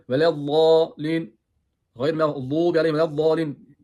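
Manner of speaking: velezzalin, kalın z ile uzatarak, yüksek sesle; VELEZZALİN'i kalın z'yle, tane tane oku; Türklerin okuyuşu taklidi. Retold or imitated. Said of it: "Yani Türkler". (Türk usulü kalın z'li velezzalin)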